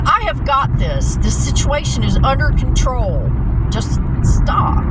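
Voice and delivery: high, emphatic retold declaration; reenacted fed-up assertion; exasperated insistence. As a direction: take charge and silence the fretting. Shutting down panicking Dad.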